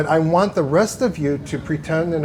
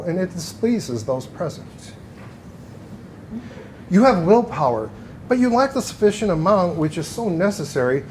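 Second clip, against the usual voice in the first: lightly put-on fortune teller voice; psychic voice. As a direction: read it like a stage psychic. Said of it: "I'm putting on my best psychic voice".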